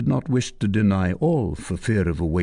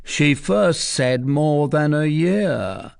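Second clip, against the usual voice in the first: higher, slow; sly soldier; 6 semitones higher, slower than usual. Acted. Soldier to Tristan, catching her lie.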